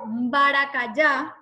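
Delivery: slow "baracayá" with an m hummed before the b; nasal first syllable. Shown as a demonstration. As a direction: start "baracayá" through the nose, as mba. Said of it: "en la primera sílaba hay esa, esa fuerza nasal".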